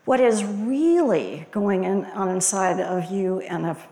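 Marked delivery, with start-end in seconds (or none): 0.0-2.0 "really" pressed a little louder; emphasize "really" to make them look inward; stress on really. Shown as a demonstration. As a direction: punch "really" in the question. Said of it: "I mean to emphasize the word really".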